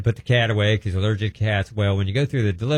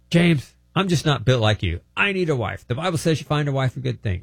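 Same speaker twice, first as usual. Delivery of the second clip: lightly voiced, higher pleading friend; a hint of the lonely friend; 6 semitones higher than usual. Friend on the phone telling James he needs a wife, mildly pleading. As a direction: plead your need gently. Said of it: "He says".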